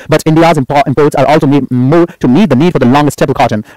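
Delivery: slow reading in a light British accent; a hint of a British accent while reading aloud. Shown as a demonstration. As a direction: keep the British accent going through the passage. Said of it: "अच्छा British accent में".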